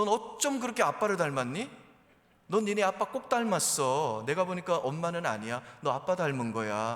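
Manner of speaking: loud, high, exasperated scolding jab.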